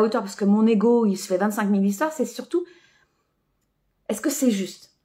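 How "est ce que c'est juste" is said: unvoiced whispered inner question; whispering. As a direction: breathe the question to yourself. Inner question, hushed aside.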